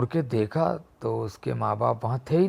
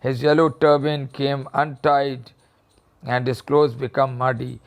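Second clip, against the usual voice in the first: reading the story slowly, word by word; much slower than usual. A narrator's reading. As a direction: read it out slowly for the class. Teacher reads the story aloud. (धीमी आवाज़ में कहानी पढ़ना)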